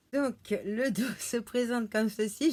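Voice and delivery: giggling through the words; laughing. Real, not acted. Youtubeuse montrant son oracle, en riant. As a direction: laugh as the cards slip. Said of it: "Je rigole parce que".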